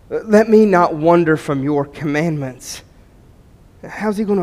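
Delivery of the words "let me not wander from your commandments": slow, deliberate repeat of the verse; slow weighty verse repeat; slow emphatic repeat. Shown as a demonstration. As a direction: let it sink in, word by word. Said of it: "repeats verse slower for emphasis".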